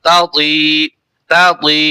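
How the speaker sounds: "তাতি" with a short first তা; unstretched তা. Shown as a demonstration. Teacher cautions learners, "তাতি" without stretching the তা. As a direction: keep the first syllable of "তাতি" short, then lengthen তি. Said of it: "তা বলে টান দিবেন না".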